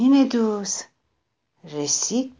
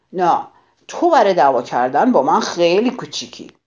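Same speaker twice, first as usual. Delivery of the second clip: louder, fast dismissive retort; quick scornful brush-off; 4 dB louder, faster than usual. Acted. Grouchy ladybug dismisses the friendly one, fast and scornful. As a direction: sneer to hide that you are scared.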